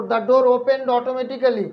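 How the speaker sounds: very slow, word by word; drawn out so students can write; slow dictation. Shown as a demonstration. Teacher dictating question five to students, very slow. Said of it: "আর একটু ধীরে ধীরে বলবো".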